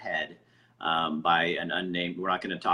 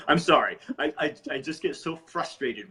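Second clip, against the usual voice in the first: higher, louder, with an embarrassed laugh; laughing apology; 6 semitones higher, 4 dB louder than usual. Real, not acted. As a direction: laugh off the outburst. Laughs after venting.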